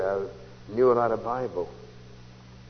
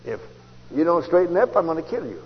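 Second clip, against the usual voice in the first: God's voice; 3 semitones higher than usual. Retold or imitated. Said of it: "same voice inflections".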